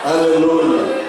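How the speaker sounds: ordinary talk, nothing marked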